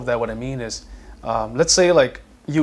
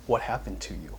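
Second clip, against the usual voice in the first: gentle question; 3 semitones lower, 9 dB quieter than usual. Retold or imitated. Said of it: "the question could be".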